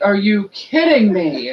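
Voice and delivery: loud, high, stretched-out exclamation; retold disbelief. Sister seeing her carried like princess, incredulous. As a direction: draw it out in mock outrage.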